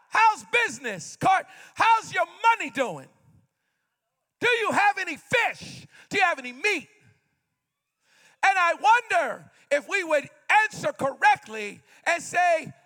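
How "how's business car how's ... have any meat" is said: mild mock yell across the water. Jesus yelling to the fishermen from the shore, mildly raised. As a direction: call out to the boat. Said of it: "he'd yell out".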